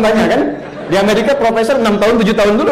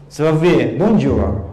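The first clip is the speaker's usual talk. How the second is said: slow, lower mock French voice; French accent; 5 semitones lower, much slower than usual. Shown as a demonstration. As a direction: imitate a French speaker, drawing it out. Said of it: "kayak orang Perancis".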